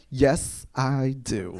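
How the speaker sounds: imitated dead-serious answer; deadpan retort. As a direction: answer evenly, as if staring someone down. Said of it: "looks me dead in the eye".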